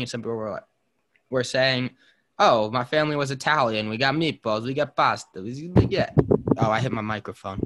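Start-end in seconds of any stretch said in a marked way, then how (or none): 2.4-6.1 put-on Italian accent. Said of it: "I like the way you said that with an Italian accent".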